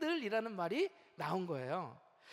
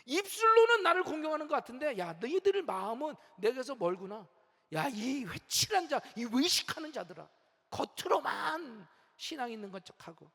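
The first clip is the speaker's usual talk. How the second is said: forceful rebuke. Retold or imitated. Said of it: "아주 강력하게 말씀하셔요".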